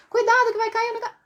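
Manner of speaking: high, rapid urgent cry; rushed, high-pitched alarm; fast emergency warning. Shown as a demonstration. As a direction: blurt a warning before it is too late. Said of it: "tem que falar rápido".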